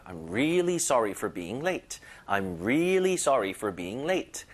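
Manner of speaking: really stretched, slow drill; stress on really. Shown as a demonstration. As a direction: drag "really" a little in "I'm really sorry for being late". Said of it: "힘을 주면 살짝 끌어주는 거예요". (really를 살짝 끌어주며 천천히)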